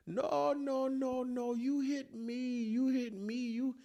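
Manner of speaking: put-on high, slow African-accented denial; African accent insisting. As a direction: insist stubbornly in his accent. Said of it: "other driver insisting".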